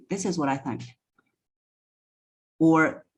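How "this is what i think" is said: energy dropping at the end. Shown as a demonstration. Coach showing her old unsure delivery, energy dropping at "think". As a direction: start "this is what I think" softly and let "think" fade away. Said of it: "the energy was dropping at the end".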